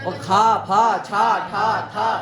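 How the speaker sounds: खा फा छा ठा था with heavy breath, a bit loud; aspirated syllables. Shown as a demonstration. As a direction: punch breath into खा and फा. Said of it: "इनमें महाप्राण आना चाहिए". (महाप्राण वर्ण)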